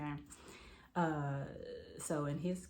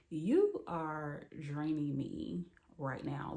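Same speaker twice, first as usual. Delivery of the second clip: fed-up emphasis; much slower than usual. Retold or imitated. Retold fed-up reply to him.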